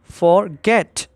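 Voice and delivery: "forget" with the weight on "get"; stress on last syllable. Shown as a demonstration. Teacher shows students where stress falls, stressing "get" in "forget". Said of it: "उसमें stress आ रहा है".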